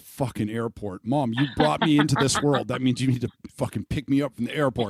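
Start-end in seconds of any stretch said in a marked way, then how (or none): 1.0-4.9 mock scolding mom.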